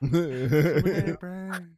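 loud strained whisper; whisper-shout the words; whisper yelling. Pretend. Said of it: "That's like when someone whisper yells".

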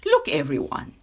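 loud, proud call for attention; a touch of lordly pride. Acted. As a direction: announce yourself to the crowd. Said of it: "he said proudly".

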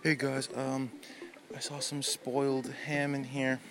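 gentle, soft-spoken chef. Pretend. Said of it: "Gordon Ramsay doesn't walk into the kitchen and say".

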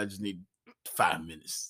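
soft, low, tired sigh of a voice; a lightly voiced worn-out man begging for a break; mock exhausted plea; mock weary Jim. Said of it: "Jim's like".

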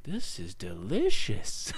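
drawn-out savoring exclamation; retold delighted verdict. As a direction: relish it slowly, stretching the words out. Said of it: "I'm like".

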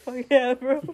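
lightly voiced frat boy; hint of a bro cheer. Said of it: "You sound like a frat boy".

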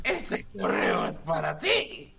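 slow, sultry read of the opening line; sultry narrator. Shown as a demonstration. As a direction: draw out "ti" slowly and seductively. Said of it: "voz sexy".

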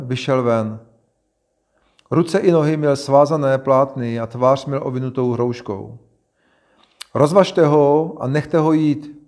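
measured, emphatic reading aloud; scripture reading. A narrator's reading. Reader reads Jesus and Martha's dialogue to listeners, scripture reading. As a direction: read each phrase out clearly, pausing between them.

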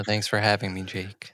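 low, soft creepy voice. Real, not acted. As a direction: sound like a quiet villain. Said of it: "That sounded creepy as fuck".

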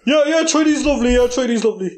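quick, lightly put-on Chinese accent; broken-English Chinese caricature; mock Chinese accent. Podcaster echoing forced praise, mock Chinese accent. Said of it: "these fucking voices are more".

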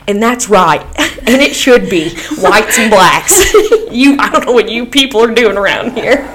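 laughing through a redneck put-on; mock racist local. Mocking the bar guy she expected, laughing redneck voice. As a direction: imitate a bigot while cracking up. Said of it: "we're waiting for him to go".

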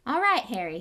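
big booming friendly giant; Hagrid voice. Acted. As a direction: greet hearty and loud. Hagrid greets Harry.

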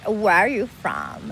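slow Los Angeles drawl; LA accent. Retold or imitated. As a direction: imitate a drawling LA local. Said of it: "cuando vivía en Los Ángeles". (acento de Los Ángeles)

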